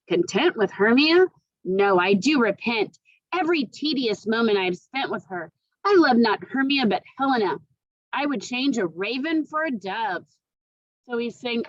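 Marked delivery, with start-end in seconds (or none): 0.1-10.3 put-on loud, scornful young lover; scornful Lysander. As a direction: brush off the old love. Lysander rejects Hermia.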